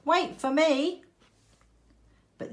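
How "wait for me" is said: very high pleading call; crying out. A narrator's reading. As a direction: beg them to wait, calling out. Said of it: "cried the ugly duckling".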